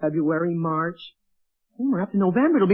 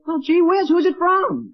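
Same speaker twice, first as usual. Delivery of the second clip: higher and louder, eager to know; eager surprise; 5 semitones higher, 3 dB louder than usual. Acted. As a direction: perk up at news of a letter. Letter arrives for Henry.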